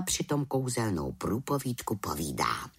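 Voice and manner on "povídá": plain reading voice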